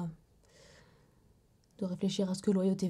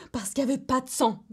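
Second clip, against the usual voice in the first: bitter indignation; 3 semitones higher than usual. Acted. Bitterly lists reasons victim was dismissed.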